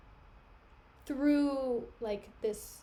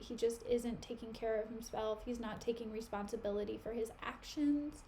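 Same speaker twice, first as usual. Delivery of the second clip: softer, hushed confiding tone; confiding secret; 7 dB quieter than usual. Retold or imitated. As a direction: lean in and spill a secret quietly. Iago confides secret quietly.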